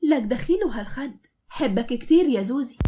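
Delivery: flirty Levantine drawl; coquettish Levantine. Acted. Woman hugs the husband, flirty Levantine cooing. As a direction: coo at him in Levantine. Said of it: "وهي بتقول له بدلع".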